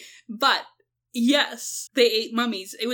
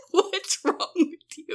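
exasperated; 6 semitones higher, much slower than usual. Retold or imitated.

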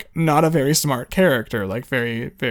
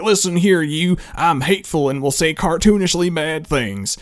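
lightly hammed-up Southern villain accent, a bit raised; mock Southern accent; 2 semitones higher than usual. Mocking how films voice racists, mock Southern accent. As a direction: put on a stock Southern bad-guy twang. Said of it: "that Southern accent".

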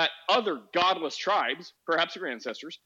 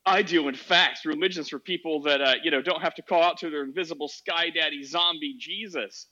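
edgy atheist; 3 dB louder than usual. Retold or imitated. Host retells an edgy atheist's jab at religion, lightly mocking. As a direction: imitate a self-assured atheist with light mockery. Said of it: "So this edgy atheist".

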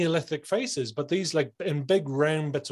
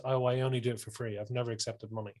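soft, falling away lower; self-effacing; 3 semitones lower, 7 dB quieter than usual. Acted. Unsure craftsman admitting he works free, self-effacing. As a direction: shrink back modestly, voice dropping. Fitter admitting he never charges.

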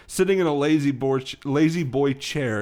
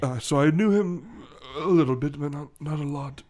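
lightly voiced English character, hesitant; English gentleman gorilla; 2 semitones higher than usual. Gorilla recalling his cousin, hesitant English voice. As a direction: explain haltingly in an English accent.

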